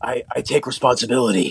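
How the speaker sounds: very breathy voice with lots of air. Imitating a video apology, breathiest voice. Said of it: "breathiest, like, you know, like Aaron Paul".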